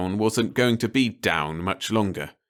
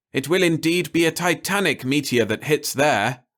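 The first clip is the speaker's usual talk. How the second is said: higher, eager scientists; enthused; 8 semitones higher, 4 dB louder than usual. Acted. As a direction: gush about the coming impact. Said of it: "the moon scientists enthused".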